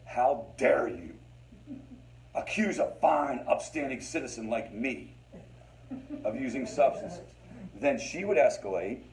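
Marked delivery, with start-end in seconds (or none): 0.1-7.3 mock indignation. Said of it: "complete indignation".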